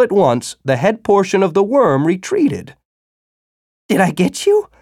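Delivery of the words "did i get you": hopeful. Acted. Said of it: "Tibor said with hope".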